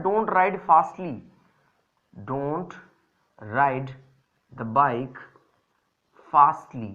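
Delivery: teacher imitating the wrong form, word by word; slow mock of the mistake. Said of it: "हम यूजुअली कहते हैं".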